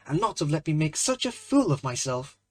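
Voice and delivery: a mildly sulky complaint; a hint of a sulking young man. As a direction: grumble it at a friend, lightly. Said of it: "said Hughie sulkily".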